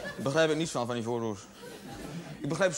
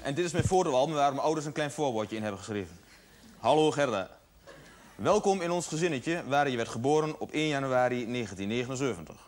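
put-on lightly lowered little girl voice; slightly deeper disguised girl voice; 4 semitones lower than usual. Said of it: "met een verdraaide stem gaan praten".

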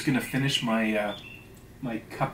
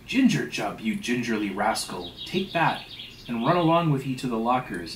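emphatic, theatrical scolding; 3 dB louder than usual. Acted. Stubb sending the steward to the lockers, scolding. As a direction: snap out the rebuke and order.

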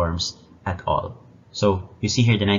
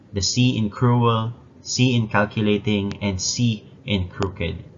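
slow emphatic; slower than usual. Shown as a demonstration. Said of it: "repeated the same sound of the C".

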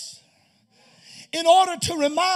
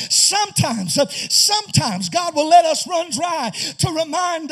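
preaching at full force. Real, not acted. Preacher pressing the church, full force. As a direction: drive the point home to the congregation. Preaching builds, calls to brothers.

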